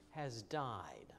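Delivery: hushed whisper. Acted. Quiet aside about the king.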